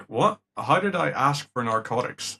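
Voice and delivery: retold shock at being accused; a touch of disbelief; mock baffled. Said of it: "it's like".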